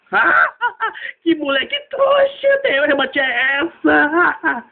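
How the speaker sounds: high cackling taunt; mocking the kid who missed the ball; mocking laugh. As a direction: laugh at the weak swing. Mocking the failed batter.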